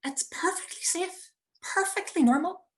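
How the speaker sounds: breathy, nervous whisper to herself; anxious whisper. Pretend. Mother whispering to herself before paragliding. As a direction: whisper it to calm your own nerves.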